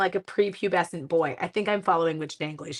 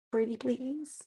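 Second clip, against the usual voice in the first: pleading; 6 semitones higher, 7 dB quieter, slower than usual. Real, not acted. Begging co-crafter to keep color.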